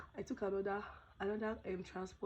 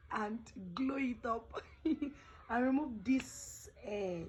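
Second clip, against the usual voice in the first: laughing whisper; 5 semitones higher, 5 dB louder, much slower than usual. Real, not acted. Joking about her hair.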